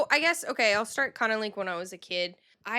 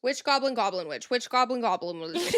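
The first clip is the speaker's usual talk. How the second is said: quick, bouncy run at a tongue-twister; fast tongue-twister; 4 dB louder than usual. Shown as a demonstration. Cohost dares her to say it five times fast, fast tongue-twister. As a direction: rattle off the tongue-twister, tripping into laughter. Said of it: "Say that five times fast".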